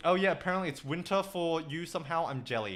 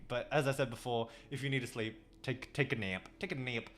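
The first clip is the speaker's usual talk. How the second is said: softly urging rest; 6 semitones lower, 8 dB quieter than usual. Real, not acted. Urging a viewer to nap.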